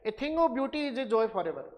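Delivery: very slow, measured reading of "A thing of beauty is a joy forever"; teacher reciting Keats to class; poem recital. Shown as a demonstration. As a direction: recite the Keats line slowly, word by word. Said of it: "John Keats की poem है".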